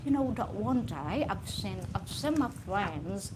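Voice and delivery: lightly imitated British chat; Harry Potter-style mock English accent. Speaker mimicking an English guy about friends, mild British accent. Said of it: "They are like Harry Potter".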